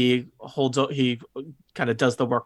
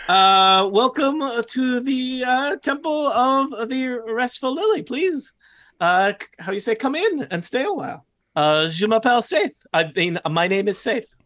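put-on high-pitched, halting goblin accent with a French flavour; 10 semitones higher than usual. Saith welcoming visitors to the temple, high heavy goblin accent. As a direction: play a French-sounding goblin searching for words. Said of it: "he's got kind of a heavy, uh, goblin accent".

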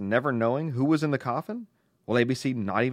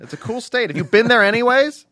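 put-on girlish voice; 10 semitones higher, 10 dB louder than usual. Voicing a young letter writer.

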